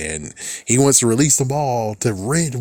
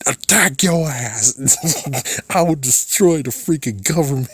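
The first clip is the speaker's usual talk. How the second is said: hammed-up duelist yell; 5 semitones higher than usual. Pretend duelist threatens government over student loans, hammed-up yell. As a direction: ham up a cocky duelist summoning his dragon.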